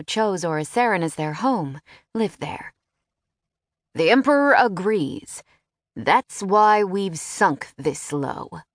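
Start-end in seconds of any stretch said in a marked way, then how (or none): 3.9-8.6 curt retort, then very slow; snapping. Acted. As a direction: bite back with impatience. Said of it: "Philip snapped".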